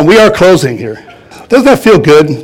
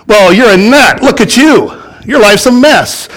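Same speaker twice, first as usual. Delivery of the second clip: higher, lightly voiced mocking devil; taunting devil; 5 semitones higher than usual. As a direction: sneer at the believer like the devil does, in a thin mock voice.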